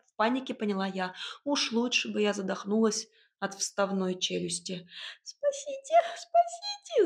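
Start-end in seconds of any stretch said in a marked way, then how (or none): 5.2-7.1 намного выше, пискляво; запищать о помощи; писк. A narrator's reading. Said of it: "запищала я". (пискливый зов, намного выше)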